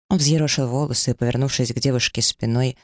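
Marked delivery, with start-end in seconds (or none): none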